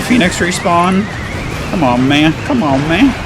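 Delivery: high, urgent come on calls; pleading cheer. Real, not acted. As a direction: beg the game for a break. Desperate last push.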